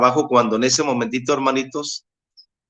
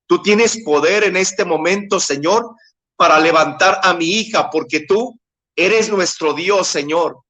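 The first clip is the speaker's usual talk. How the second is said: retold pleading prayer, pitched higher; crying out to God; 4 semitones higher than usual. Father praying over his wounded daughter and nephew, pleading cry to God. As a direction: re-enact a fervent plea, rising as it builds. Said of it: "empecé a clamar a Dios".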